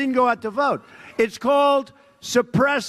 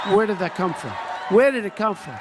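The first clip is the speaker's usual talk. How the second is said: mock shocked yell of a TV pundit; imitating panicked commentators; stunned pundits. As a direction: shout it like a stunned newsman.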